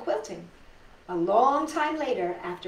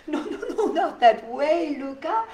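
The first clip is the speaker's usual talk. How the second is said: higher, laughing no-no-no, gently correcting; laughing grandmother; 6 semitones higher, 6 dB louder than usual. Acted. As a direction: chuckle through it as grandma teases the child. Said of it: "Tutu laughed".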